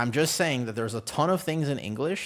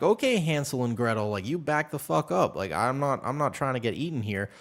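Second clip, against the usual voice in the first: mock indignant; 3 semitones higher, 3 dB louder than usual. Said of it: "And I'm like".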